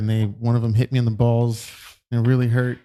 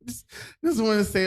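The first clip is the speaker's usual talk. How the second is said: voice cracking; 8 semitones higher than usual. Real, not acted. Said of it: "I don't know why my voice cracked".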